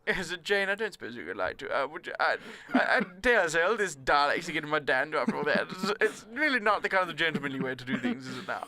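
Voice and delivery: lightly put-on posh gentleman; hesitant mock-posh English, amused underneath; posh Doctor Who. Posh Doctor politely objecting to the Daleks, lightly mocked gentleman's voice. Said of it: "I would like to have a posh Doctor Who".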